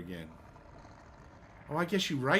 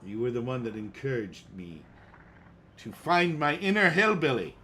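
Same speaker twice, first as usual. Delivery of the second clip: put-on hillbilly accent; 4 dB louder than usual. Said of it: "I'm talking like a hillbilly".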